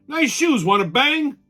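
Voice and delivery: high, playful come-on; a jokey high pickup line; mock pickup line. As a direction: tease like a cheesy pickup. Mock pickup line after sex stat.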